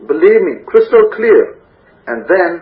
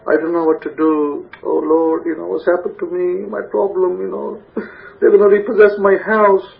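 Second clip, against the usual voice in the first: mock despair, sighing up to the Lord; despairing lament; 3 semitones higher than usual. Troubled believer cries out to the Lord, mock despair. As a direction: play the hopeless soul asking God for help. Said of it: "and you're like".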